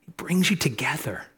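chuckling through the words; laughing repeat. Real, not acted. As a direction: let the laugh carry the line. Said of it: "repeats the line laughing".

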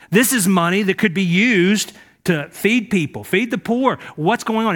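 indignant protest. Acted. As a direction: protest like the waste is a scandal.

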